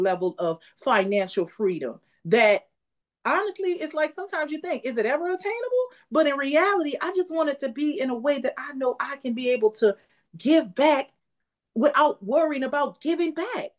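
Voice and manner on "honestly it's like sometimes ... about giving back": getting emotional. Real, not acted. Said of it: "I'm getting emotional right now".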